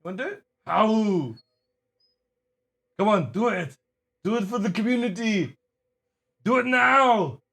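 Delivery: high, swooping coaxing voice; different voice for the dog. Real, not acted. Owner begging the husky to perform for viewers, high coaxing. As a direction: coax the dog in a high sing-out. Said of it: "asking him in a different voice".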